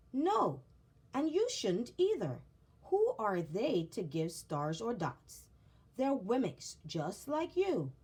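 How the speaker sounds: firm reassurance. Acted. Eli insists firmly.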